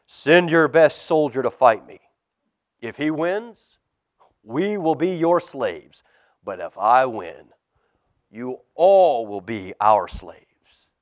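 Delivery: lightly voiced taunting giant, slow at the end; mild giant bellow to the armies; giant's challenge. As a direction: taunt them like a bully giant. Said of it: "Goliath came out and shouted".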